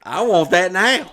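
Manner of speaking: loud, high, slow and eager; excited. Real, not acted. Hearing about the pump, loudly excited and eager. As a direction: want it right now, out loud. Reacting to the penis pump story.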